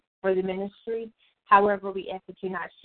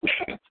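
sneezing; 11 semitones higher than usual. Real, not acted. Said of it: "I'm gonna sneeze".

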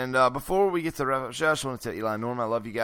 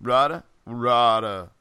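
Schnitzel voice; 3 semitones lower than usual. Retold or imitated. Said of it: "where I do Schnitzel the whole episode".

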